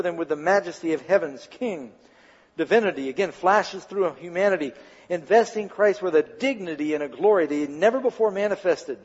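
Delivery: measured, emphatic story reading; dramatic narration. A narrator's reading. Preacher reads the temple story to listeners, dramatic narration. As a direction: read it out with solemn drama.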